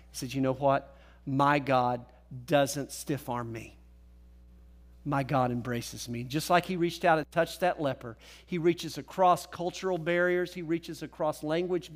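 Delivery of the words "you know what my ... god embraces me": low, slow-paced personal confession; earnest testimony. Retold or imitated. Centurion testifying how God treats him, low and earnest.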